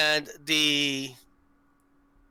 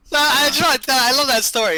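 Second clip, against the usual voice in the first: louder, higher laugh-talk; laughing embarrassed; 9 semitones higher, 7 dB louder than usual. Real, not acted. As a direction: laugh it off, caught out. Laughing at being caught live.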